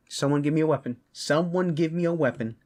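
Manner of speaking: high, urgent call for a weapon; fired-up, insistent demand. Acted.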